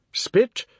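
high, loud startled question; frightened. A narrator's reading. Frightened man accused of spitting, alarmed question. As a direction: yelp it in feigned disbelief. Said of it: "Mister Biswas was frightened".

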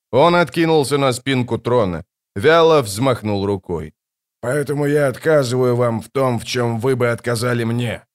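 a hint of a mocking tyrant. Kallor mocks the gods who came to him, lightly mocking king. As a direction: sneer at the gods from the throne, lightly.

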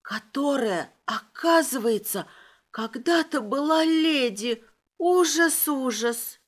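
tragic whisper. Acted. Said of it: "трагическим шёпотом выдохнула".

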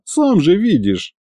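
high, slow whine; wailing plea. A narrator's reading. Hero appeals to grandpa, wailing. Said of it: "завыл я".

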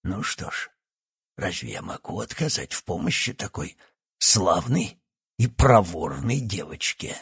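sly, hushed menace. Acted. Doctor slyly offering help to Yana. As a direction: purr it slyly.

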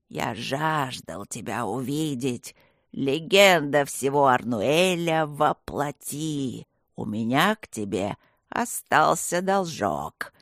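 медленно, нечеловечески, с угрозой; растягивать слова, как потустороннее зло; демонический голос зла. Acted. (зло насмехается над мальчиком, медленно и жутко)

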